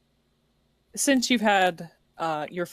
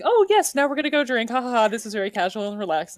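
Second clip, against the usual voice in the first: excited; 3 semitones higher, 3 dB louder, faster than usual. Retold or imitated. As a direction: imitate Bryn's overeager excitement. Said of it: "Bryn was just like".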